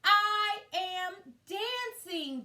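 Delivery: high, loud, slow cries of joy; joyful cry. Acted. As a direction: burst out with delight, half singing. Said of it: "Gerald cried".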